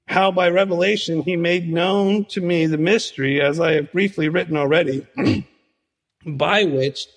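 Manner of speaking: measured, formal reading of the passage; scripture reading. Acted. Preacher reading Ephesians to the congregation, formal reading. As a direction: read it aloud as sacred text.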